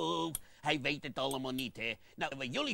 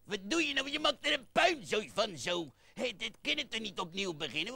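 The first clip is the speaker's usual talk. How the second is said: exasperated scolding; 6 semitones higher than usual. Acted. Puppet scolds partner.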